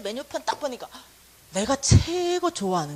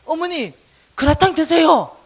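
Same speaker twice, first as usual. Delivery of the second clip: loud, slow, higher offering; sweet yielding child; 6 semitones higher, 13 dB louder than usual. Retold or imitated. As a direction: give in with a bow.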